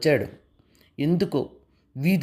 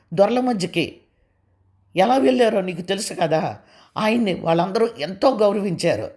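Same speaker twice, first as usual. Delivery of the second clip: higher, heated rebuke; angry; 4 semitones higher than usual. Acted. Husband rebukes his wife about his mother, angry. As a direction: scold her with rising heat. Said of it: "అన్నాడు కోపంగా".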